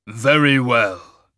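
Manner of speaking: slow, firm, reluctant assent; heavy, grudging agreement. Acted. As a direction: concede through held-back rage. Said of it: "he said grudgingly".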